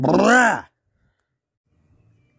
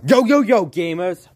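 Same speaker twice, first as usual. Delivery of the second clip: hype greeting; 3 semitones higher, 5 dB louder than usual. Acted. Hyped greeting to gamers.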